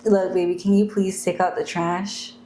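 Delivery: gentle, polite ask to a partner; nicer request. Shown as a demonstration. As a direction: ask sweetly, in an everyday pitch. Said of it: "It sounds better, right?".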